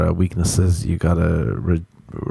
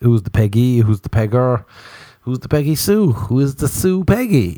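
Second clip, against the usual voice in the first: baffled Irish lad; 6 semitones higher than usual. Retold or imitated. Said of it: "you grow up and you're like".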